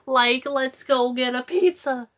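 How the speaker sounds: lazy surfer calling to Scooby; Shaggy as a relaxed surfer; surfer dude Shaggy. Retold or imitated. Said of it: "like that surfer".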